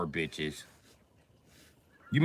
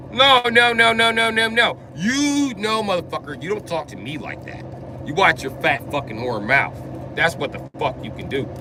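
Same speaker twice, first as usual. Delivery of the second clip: shaking with anger; 5 semitones higher than usual. Retold or imitated. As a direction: cut her off in a rage. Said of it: "Don't you ever speak to me like that".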